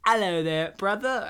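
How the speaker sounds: imitating British accent. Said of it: "is he doing an accent".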